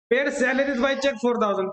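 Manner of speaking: slowly, word by word, for copying; slow dictation. Shown as a demonstration. Teacher dictating a problem to students, slow and even. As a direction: dictate each word so they can write it.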